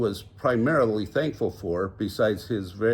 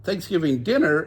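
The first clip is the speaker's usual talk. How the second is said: high puzzled exclamation; surprised exclaim; 6 semitones higher, 4 dB louder than usual. A narrator's reading. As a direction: blurt it out in surprise. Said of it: "exclaimed everyone all at once".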